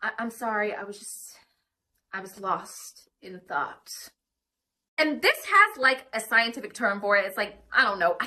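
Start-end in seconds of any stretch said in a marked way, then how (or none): 0.0-3.9 quiet, slow, almost whispered sorry; soft apology. Shown as a demonstration. A speaker showing how to apologise to a partner, softly. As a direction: gently excuse yourself, barely voiced. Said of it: "check ourselves out and be like".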